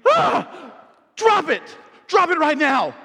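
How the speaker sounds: high, loud panicked scream; mother shrieks at son holding a dead mouse, high and loud. Retold or imitated. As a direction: shriek it like a mum who just saw a dead mouse. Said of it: "Lauren screams".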